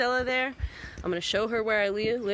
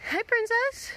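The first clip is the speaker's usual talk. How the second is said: high cooing; 12 semitones higher, slower than usual. Real, not acted. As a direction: sing it up high to the dog. Greeting the dog.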